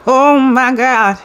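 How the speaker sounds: high, drawn-out gasp of awe; slow stunned oh my God; amazed. Real, not acted. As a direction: stretch it out in wonder. Amazed at the cards.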